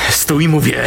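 high shouted command; shouting. Acted. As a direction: shout him down. Sergeant orders attacker to stop.

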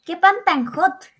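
high, loud, slow "¿Qué pan tan hot?" with a rising question; mock-confused "¿Qué pan tan hot?", drawn out and loud; puzzled mishearing. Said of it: "Yo cuando me dicen".

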